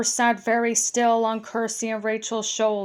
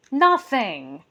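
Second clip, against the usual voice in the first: rude gruff goblin; 3 dB louder than usual. Acted. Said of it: "said another gruff voice, very rudely".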